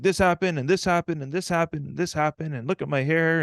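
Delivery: high, loud acted outburst; frantic spewing. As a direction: spill every grievance to Dad in a heap. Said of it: "you start spewing".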